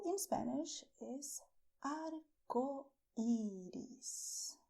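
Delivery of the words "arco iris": arco iris said slowly, r tapped lightly; tongue tip only for the r in arco iris; untrilled r. Shown as a demonstration. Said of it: "I did not make rrr".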